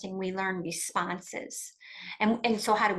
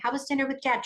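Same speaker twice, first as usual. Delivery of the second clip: higher, lilting, sweetly polite question; trying to be nice; 5 semitones higher, faster than usual. Retold or imitated. Mother asking daughter about dad, forced sweetness. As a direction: sound nice while hiding hurt. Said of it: "Trying to be nice".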